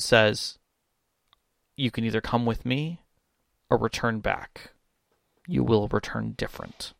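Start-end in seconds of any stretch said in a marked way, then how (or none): 1.8-6.9 low, quiet, measured otherworldly offer; mysterious figure. Acted. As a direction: speak softly and low with ominous pauses. Voicing a shadowy figure offering a bargain.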